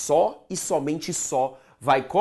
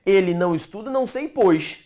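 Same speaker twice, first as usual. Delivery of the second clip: testing a substitution; 5 semitones higher, 4 dB louder than usual. Shown as a demonstration. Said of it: "Tenta um pois".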